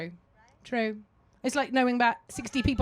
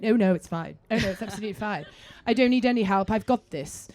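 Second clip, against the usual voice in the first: politely British brush-off; put-on proper British politeness; all British; 2 semitones lower, faster than usual. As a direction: wave off help in a very British voice. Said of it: "I just went all British".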